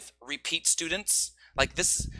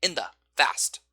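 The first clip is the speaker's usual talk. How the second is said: quick function words. Shown as a demonstration. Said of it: "we don't need to say fast".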